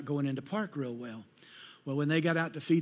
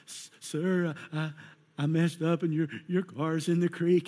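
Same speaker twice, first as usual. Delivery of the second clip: nervous apology; 2 semitones higher than usual. Retold or imitated. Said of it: "she's like".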